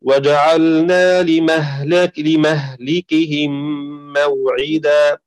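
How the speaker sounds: slow, drawn-out tajweed recitation; Quran recitation. Shown as a demonstration. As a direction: recite it slowly, as in prayer. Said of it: "قوله تعالى هنا". (تلاوة مرتلة بطيئة)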